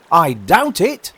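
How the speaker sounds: high, loud, slow reply; doubtful carpenter. Acted. Carpenter answering the walrus about the sand, doleful. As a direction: moan it out slowly and loudly.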